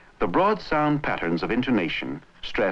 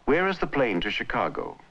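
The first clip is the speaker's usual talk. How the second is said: "Where is the plane to Chicago?" held level up to the strongest stress, then falling; American intonation; 3 semitones higher than usual. Shown as a demonstration. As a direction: keep "Where is the plane to Chicago?" on a normal tone until the stressed syllable, then drop. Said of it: "begin with a level or normal tone".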